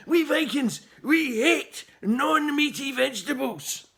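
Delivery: loud, high proud declaration. A narrator's reading. Viking tells the boy, loud proud declaration. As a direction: proclaim it to the whole square.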